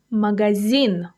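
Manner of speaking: Magazine with the final syllable stressed, ma-ga-ZINE; teacher modelling end-stressed Magazine; stress on last syllable. Shown as a demonstration. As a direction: land the weight on the end of Magazine. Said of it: "The stress falls on the last syllable".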